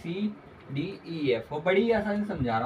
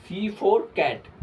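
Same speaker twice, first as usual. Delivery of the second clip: slow dictation; 4 semitones higher, 5 dB louder, much slower than usual. Shown as a demonstration. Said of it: "teacher dictating letters slowly".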